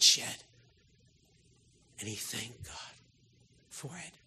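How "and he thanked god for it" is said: dropped to a near hush; hushed, reverent preacher. Real, not acted. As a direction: let it fall almost to nothing. Preacher hushes on Jesus thanking God.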